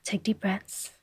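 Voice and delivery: slow, soft, whispered; breathy whisper. Real, not acted. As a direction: breathe out the words quietly. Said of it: "My mind is so flustered".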